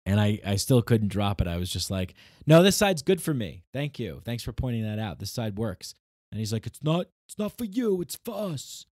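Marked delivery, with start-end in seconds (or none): 2.5-5.9 sarcastic retort. Retold or imitated. 6.7-8.9 high, mocking voice of the walker; high snooty mimicry of an entitled walker. Imitating walker.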